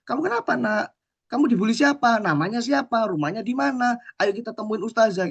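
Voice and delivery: put-on a worried mum grilling her child; mother frets over her bullied son; fussing mother.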